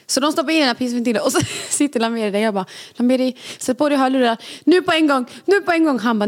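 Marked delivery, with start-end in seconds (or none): 3.0-6.0 raised pitch, insistent command to a partner; retold urgent order. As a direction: act out an urgent demand. (återberättad enträgen uppmaning)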